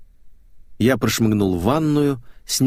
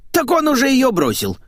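elegiac reply; 4 dB louder than usual. Acted. Maid telling him the caller hung up, wistful. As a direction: say it wistfully, shrugging it off. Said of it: "элегически ответила Ленка".

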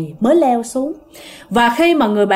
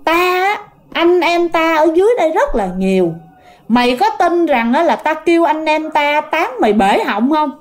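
lightly acted threatening spirit, pitched higher; possessed girl's threat; 4 semitones higher than usual. Possessed girl threatens the scolding neighbour, lightly acted higher-pitched menace. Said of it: "nó nói vậy nè".

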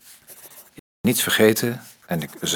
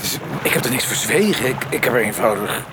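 fast, loud, higher protest; heated defence; 9 semitones higher, 5 dB louder, faster than usual. Acted. Politician snapping back at his party colleague, fast and loud. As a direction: rattle it off, stung and defensive.

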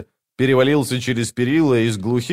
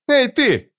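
shouting. A narrator's reading. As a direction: shout her down. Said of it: "прикрикнула женщина".

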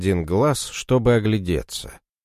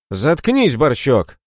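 loud, high angry snap; angry bark; 5 semitones higher, 4 dB louder, slower than usual. Acted. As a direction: bark at him to shut up. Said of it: "рявкнул Мороз".

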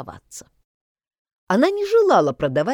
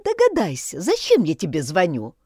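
squeaky voice. Acted. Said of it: "заговорила она писклявым голосом".

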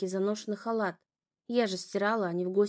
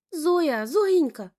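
much higher, loud, horrified; terrified cry; 5 semitones higher, 7 dB louder, much slower than usual. A narrator's reading. Younger sister sees father slap Zoya, terrified. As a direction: cry out in horror.

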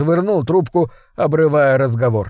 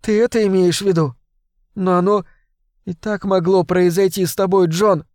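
pleading Sarah; 5 semitones higher than usual. Acted. Sarah pleads with John, higher and tearful. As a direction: try to calm him, tearful.

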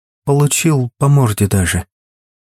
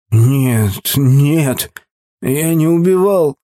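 sobbing; slower than usual. Acted. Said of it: "всхлипнул Игорь".

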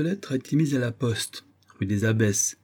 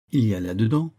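"là-dedans" left hanging on a rise; suspenseful build-up; faster than usual. A narrator's reading. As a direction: hold "là-dedans" open before a pause. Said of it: "Il prit un temps, en acteur sûr de son effet".

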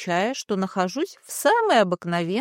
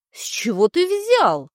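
indignant; 5 semitones higher, 4 dB louder than usual. Acted. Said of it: "возмущённо вскинула голову".

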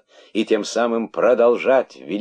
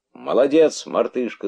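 raised, high cheer; crowd shouting; 6 semitones higher, 4 dB louder than usual. A narrator's reading. Rabbits cheering on the monkey, shouting. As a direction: cheer her on loudly, then ease off. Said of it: "закричали кролики".

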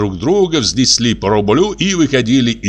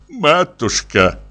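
slow, drawn-out plaintive plea; a mock-tearful coaxing; wheedling old lady in mild tears; 3 semitones higher, much slower than usual. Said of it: "плачущим голосом".

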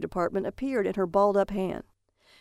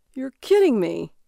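louder, higher delighted outburst; excited cry; 4 semitones higher, 6 dB louder than usual. A narrator's reading. Barry to his wife over his delivery, excited cry. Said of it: "Barry cried out, laughing wildly".

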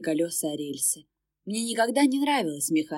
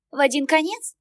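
high, bright-toned ticket clerk; polite service lady at the window; cashier voice; 8 semitones higher, 5 dB louder than usual. Acted. Cashier asks. (вежливая кассирша, высокий голос)

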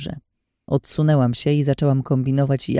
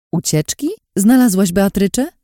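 urgent questions, growing louder and higher; anxious eagerness; 6 semitones higher, 5 dB louder than usual. A narrator's reading. Friend asking about a missing companion, anxious eagerness. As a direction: ask with keen concern, building to the second question. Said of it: "zapytała z przejęciem".

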